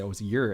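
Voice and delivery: "your" said as "yer"; "your" rhymes with "fur"; short, casual "yer" for "your"; reduced "your". Shown as a demonstration. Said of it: "I say".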